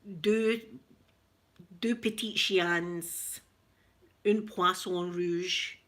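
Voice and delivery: slow, halting French in a Glaswegian accent; careful beginner's French with Glaswegian vowels. Shown as a demonstration. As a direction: recite French word by word, staying Glaswegian. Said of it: "it's still Glaswegian French".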